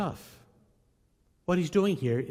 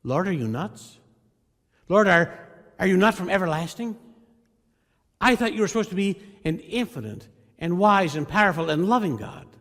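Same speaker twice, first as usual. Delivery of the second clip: louder, higher exasperated challenge to God; 3 semitones higher, 5 dB louder than usual. Retold or imitated. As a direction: demand answers, outraged. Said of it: "Habakkuk basically says".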